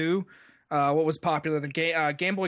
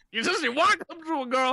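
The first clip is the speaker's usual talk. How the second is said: Bill Cosby impression; 6 semitones higher than usual. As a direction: go full Cosby, laughing through it. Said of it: "Bill Cosby".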